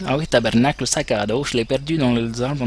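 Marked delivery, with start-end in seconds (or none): 0.1-0.8 lightly put-on Québécois, casual swear; mock Québécois Snake, offhand; a touch of Québécois accent. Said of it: "Snake québécois".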